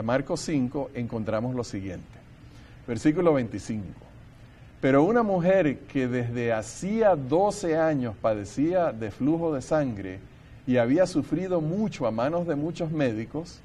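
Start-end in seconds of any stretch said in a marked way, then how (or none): 4.8-13.6 solemn public reading, measured phrase by phrase; scripture reading. Acted. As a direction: read the passage aloud with deliberate weight on key phrases. Reads scripture passage aloud.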